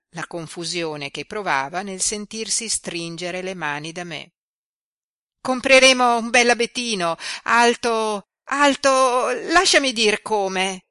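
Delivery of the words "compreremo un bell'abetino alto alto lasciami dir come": higher and louder, eager and animated; lively girl. A narrator's reading. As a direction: rattle off her plan like an eager young girl. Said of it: "riprendendo la vivacità".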